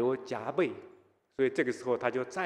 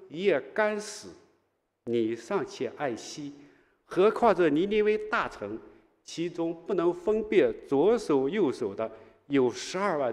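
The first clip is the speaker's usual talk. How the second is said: gentle reasoning; 2 semitones higher than usual. Acted. God patiently reasoning with an unreasonable Jonah, gentle. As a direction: reason with him kindly. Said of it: "好温柔的神啊！".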